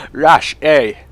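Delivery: loud callout in a fake Russian accent; calling to Russian teammates, loud put-on Russian accent; mock Russian accent. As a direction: shout it like a Russian teammate would. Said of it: "put in an accent like".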